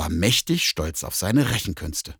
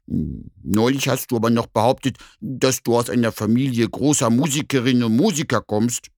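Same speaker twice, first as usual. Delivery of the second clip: doubtful bear; 3 semitones higher, 4 dB louder than usual. Acted. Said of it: "erwiderte der Bär etwas ungläubig".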